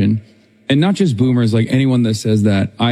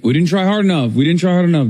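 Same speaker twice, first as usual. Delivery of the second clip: higher, sarcastic singsong; mocking whine; 6 semitones higher than usual. Host mocking those who blame the campaign, sarcastic higher tone.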